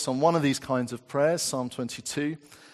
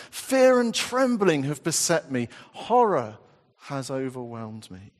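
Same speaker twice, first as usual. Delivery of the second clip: impassioned scripture reading. Acted. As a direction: cry out the psalm, rising then sinking to a hush. Reads psalm fifty-five.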